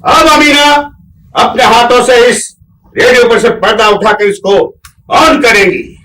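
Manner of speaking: loud, slow welcome address to guests; formal speech. Acted. Host welcomes guests, loud and ceremonious. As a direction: announce it grandly to the whole hall.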